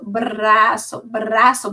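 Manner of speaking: BRAÇO with a lingering rolled r; gradual blending. Shown as a demonstration. Teacher guiding pupils toward the word, gradually blended. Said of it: "você vai mostrando".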